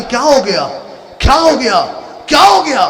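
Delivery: father crying over his dying son, building; building anguished cry. Acted.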